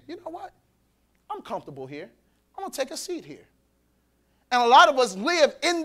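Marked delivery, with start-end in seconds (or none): 0.1-3.5 mock comfortable sinner. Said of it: "is saying".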